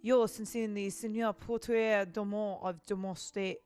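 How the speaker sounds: put-on letter read with a light French accent; a hint of a French accent, formal. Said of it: "giving, like, a French accent".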